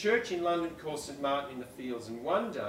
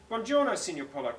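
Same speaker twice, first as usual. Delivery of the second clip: Buongiorno, Signor Polo, light Italian lilt, a bit higher; Italian greeting; 5 semitones higher, 5 dB louder than usual. Acted. Second read of Federica greeting Mister Chicken, light Italian accent. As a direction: call Buongiorno, Signor Polo like a Roman guide. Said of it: "called, called Federica".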